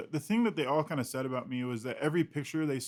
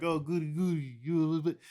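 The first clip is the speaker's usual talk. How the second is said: puppy voice; 3 semitones higher than usual. Retold or imitated. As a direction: bounce it like a cheery kids' book. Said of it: "puppy voice of picture books".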